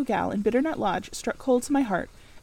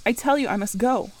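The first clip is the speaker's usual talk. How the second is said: passionate retort; 4 dB louder than usual. Acted. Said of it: "I retorted, roused to something like passion".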